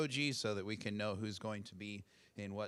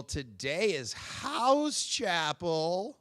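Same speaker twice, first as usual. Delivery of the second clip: hype announcer; 7 semitones higher, 8 dB louder, much slower than usual. Pretend. Hyped announcement to chapel crowd.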